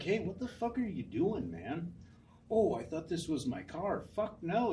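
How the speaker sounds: high, loud mock yell at the thief; retold angry yell. Yelling at the man who sat in his car, high and loud. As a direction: shout him out of the car. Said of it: "I was like".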